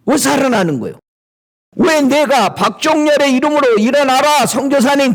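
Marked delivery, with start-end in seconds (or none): 2.5-5.1 mock command. Mock command in own name.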